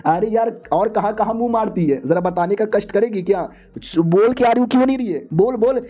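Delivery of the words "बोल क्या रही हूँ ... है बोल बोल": put-on jealous girlfriend yelling at her rival to answer; furious shout. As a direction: demand an answer at full volume. Furious girl confronting rival.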